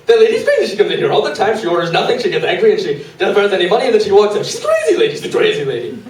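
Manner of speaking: high-pitched, loud mock voice of the restaurant owner; imitating the Chinese lady. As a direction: Chinese lady gossiping to diners about the customer, high mock accent. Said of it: "the Chinese lady stands up and goes".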